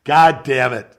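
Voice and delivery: laughing. Real, not acted. Laughing at imagined booking.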